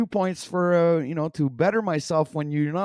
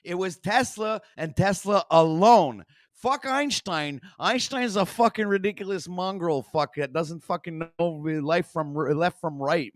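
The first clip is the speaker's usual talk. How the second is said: outraged rant; 4 semitones higher than usual. Acted. Ranting at the video over the Einstein quote. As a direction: rant in mock fury.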